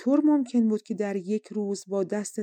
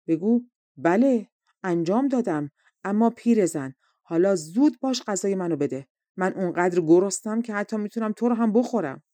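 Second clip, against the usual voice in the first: firm, somewhat louder acted anger; mock angry reply; 4 dB louder than usual. Wife coaches prince to answer old woman angrily, mildly angry. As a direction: put some angry force into it. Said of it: "با خشم پاسخش رو بده".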